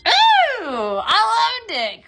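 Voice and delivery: real delight, voice jumping up high; excited gush. Real, not acted. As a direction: swoon over the lamp. Gushing over a lamp look.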